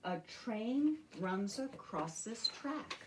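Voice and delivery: put-on slow, sing-song reading to children; unhurried picture-book reading; slow storybook read. Shown as a demonstration. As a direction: read it out slowly over the beat. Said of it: "Can you keep the beat for me?".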